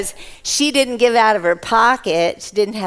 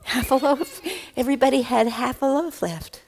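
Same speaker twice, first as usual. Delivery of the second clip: laughing; 2 semitones higher, 4 dB quieter than usual. Real, not acted. Laughing at the punchline.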